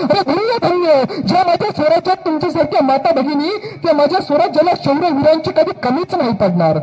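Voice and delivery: a lightly voiced king blessing the women; proud king. King to the widow and mother, proud. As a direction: stately praise.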